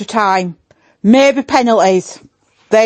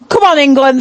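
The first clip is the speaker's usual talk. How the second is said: a mildly raised team chant; rallying cheer; 3 semitones higher than usual. Acted. Giving in to the host's request, mild rallying cheer. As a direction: give a modest rallying cry. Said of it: "I wanna get a "Come on, England".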